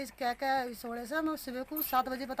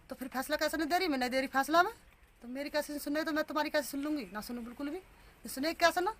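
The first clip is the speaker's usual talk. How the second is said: ऊँची, धीमी, गुस्से वाली डांट की नकल; पुलिस की धमकी दोहराती हुई; 3 semitones higher than usual. Retold or imitated. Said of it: "तो धमका मुझे बहुत डांटा". (थाने में डांटते पुलिस वाले की हल्की नकल)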